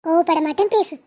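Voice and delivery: a touch of sulky anger in "கோவப்பட மாட்டேன்"; grudging annoyance. Acted. Wife to husband, promising calm but sounding mildly annoyed. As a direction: say "கோவப்பட மாட்டேன்" through mild irritation. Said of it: "நீ கோவப்பட மாட்டேங்கிறது கூட கோவமா சொல்ற".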